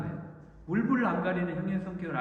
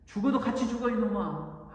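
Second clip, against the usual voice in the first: stern mild rebuke; scolding; 4 semitones higher than usual. Acted. God rebuking Jacob to die with his family, stern. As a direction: tell him off, firm but short. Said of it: "야곱을 하나님이 꾸짖고".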